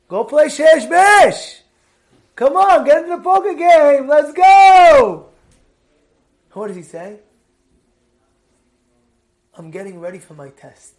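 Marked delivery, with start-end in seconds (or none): 0.1-5.3 loud, high and slow, shouting across the room; a friend yells to a man studying, come join the game; calling out loudly. Retold or imitated. Friends calling him to play. 9.6-10.9 calm quiet reply. Retold or imitated. Studious man answers calmly.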